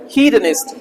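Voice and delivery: हीदनिस्ट opening on a long "hee"; starts with "hee". Shown as a demonstration. Teacher explaining the spelling, हीदनिस्ट starting with "hee". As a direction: begin हीदनिस्ट like the word "he". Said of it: "ही पढ़ते हैं ना हम उसको".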